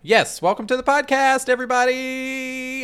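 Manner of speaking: high, loud, bright vocal fry greeting. Acted. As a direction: back to normal with vocal fry. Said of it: "Let's get some vocal fry back in here".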